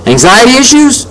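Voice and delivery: outraged question, voice shooting up; yelling. A narrator's reading. Boy yelling from his room at his parents, indignant. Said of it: "I yelled from my room".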